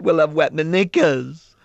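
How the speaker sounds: put-on a small child's sorry confession; little girl. Little girl voiced in story.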